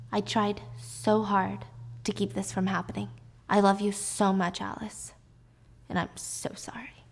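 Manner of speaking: soft, halting confession; sorrowful apology. Acted. Husband confessing to Alice before betrayal, sorrowful. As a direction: apologize quietly, trailing into near whisper.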